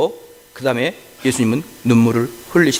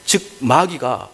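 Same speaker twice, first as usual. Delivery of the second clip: ordinary talk, nothing marked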